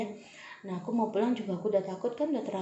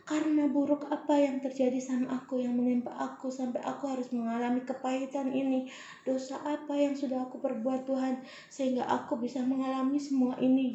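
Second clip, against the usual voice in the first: anguished plea; 4 semitones higher than usual. Retold or imitated.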